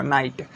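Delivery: नाइट said as "nait", gh left silent. Shown as a demonstration. Teacher modelling नाइट for students, gh silent. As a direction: say नाइट with no sound for gh. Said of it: "जीएच का उच्चारण नहीं होगा".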